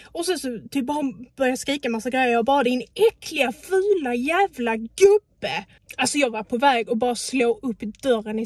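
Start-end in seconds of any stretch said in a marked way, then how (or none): 2.6-5.7 loud, very slow furious insult. Retold or imitated. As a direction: spit each word out slowly at him. Retold insult at driver. (skriker sakta och ilsket åt gubben)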